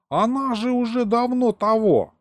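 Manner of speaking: very high, plaintive explanation; astonished excuse. Acted. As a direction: confess as if it were obvious. Glutton explaining the cutlet is gone.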